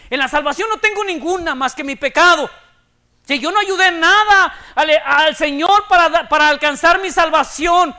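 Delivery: loud, forceful preaching at full force. Acted. Predicación con fuerza. (predicación enérgica y en voz alta)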